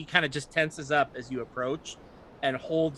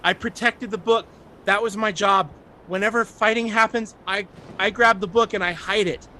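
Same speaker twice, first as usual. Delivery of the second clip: panicked; 7 semitones higher, 8 dB louder than usual. Acted. Panicked child defending himself.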